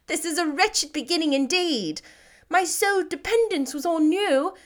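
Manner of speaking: a hint of Lizzie insisting on the truth; Elizabeth, earnest.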